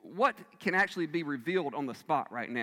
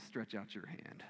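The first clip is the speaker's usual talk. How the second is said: gentle command; 7 semitones lower, 15 dB quieter, slower than usual. Retold or imitated. Jesus speaks gently to the man.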